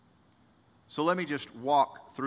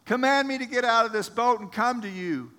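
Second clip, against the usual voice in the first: bold Peter; 10 semitones higher, 7 dB louder than usual. Acted. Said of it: "And he says".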